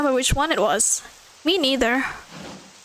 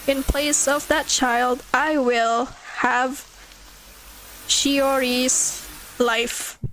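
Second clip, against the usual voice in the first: slow ghostly threat; much slower than usual. Acted.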